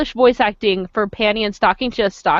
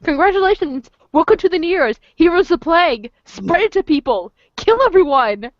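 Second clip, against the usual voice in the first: mock congratulations; 4 semitones higher than usual. Mock announcement of plague as gift.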